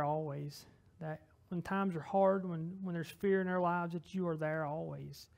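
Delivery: earnest spoken prayer to God, unhurried; closing prayer. Acted. Pastor closing the service praying for the congregation, earnest prayer. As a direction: pray it sincerely, talking straight to God.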